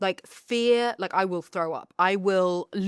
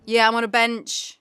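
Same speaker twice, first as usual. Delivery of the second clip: ordinary delivery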